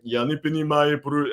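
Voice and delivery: put-on Russian, as if knowing no English; fake Russian. Buddy posing as a Russian student, fake Russian. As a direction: imitate a buddy bluffing in Russian. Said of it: "some fake Russian".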